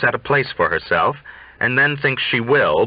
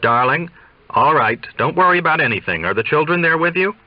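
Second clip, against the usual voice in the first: remote voice; 6 semitones higher, faster than usual. Acted. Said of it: "in a remote, ticky voice".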